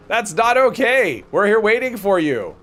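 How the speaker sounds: slow, mock-stern telling off; playful scolding. Real, not acted. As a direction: scold him like a teasing parent. Scolding teammate who skipped raid.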